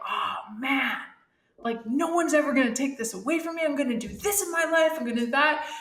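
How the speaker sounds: fast, excited rush of resolutions; eager hiker. Retold or imitated. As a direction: rattle off plans in a giddy hurry. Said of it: "and you're like".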